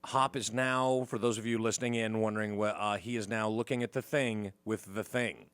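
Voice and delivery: low, measured play-by-play aside; mock commentary. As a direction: fill listeners in like a discreet commentator.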